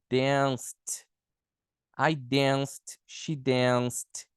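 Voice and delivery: "danced" said "danst", one syllable; -ed pronounced as T. Shown as a demonstration. Teacher extending the rule to C, "danced" ending in T. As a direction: land "danced" on a clear T. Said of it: "O C também".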